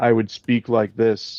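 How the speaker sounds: flat, low, plodding delivery. Demonstrating how their voice used to sound, in a low plodding monotone. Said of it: "this is sort of the low plodding monotone".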